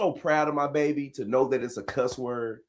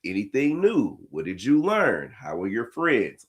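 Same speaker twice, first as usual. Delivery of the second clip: proper parent questions; 2 semitones lower, 4 dB quieter than usual. Retold or imitated. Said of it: "I hit her with all the little proper questions".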